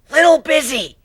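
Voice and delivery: loud, high shouted reply. Acted. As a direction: shout back while fighting. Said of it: "Gilda shouted".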